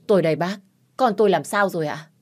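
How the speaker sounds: urgent call. Acted. Huy rushes to the doctor.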